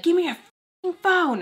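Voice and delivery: mock-angry, drawn-out demand; retold cussing out. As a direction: imitate a furious mom's order. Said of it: "she cusses me out".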